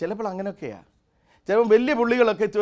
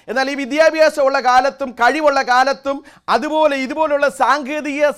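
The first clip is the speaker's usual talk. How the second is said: raised, higher and louder sermon voice; fervent preaching; 7 semitones higher, 7 dB louder than usual. Real, not acted. Preacher telling the congregation of bound tongues, fervent preaching. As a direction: preach it out with driving force.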